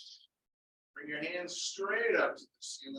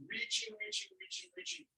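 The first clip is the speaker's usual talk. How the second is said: high encouraging cue; 6 dB quieter than usual. Acted.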